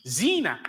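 "zina" with a long, drawn-out "zee"; correct pronunciation of zina. Shown as a demonstration. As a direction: stretch the first vowel of "zina". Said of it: "not zina".

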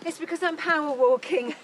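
puffing from a brisk walk; talking while catching breath. Real, not acted. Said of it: "If I'm panting".

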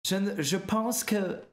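slow French with a strange English accent; odd English accent. Shown as a demonstration. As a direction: try out a weird anglophone accent, haltingly. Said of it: "c'est anglais bizarre".

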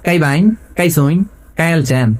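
short phrases in mock Kishoreganj dialect. Preacher shows the crowd how Kishoreganj people talk, mock dialect. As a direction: imitate Kishoreganj and Mymensingh speech. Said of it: "এরকম বলে, ঠিক কিনা".

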